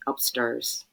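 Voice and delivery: attempted Irish "Upstairs", vowel turned to "sturs"; Northern Irish accent. Mother imitating her son's word, Northern Irish accent. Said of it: "with an Irish accent".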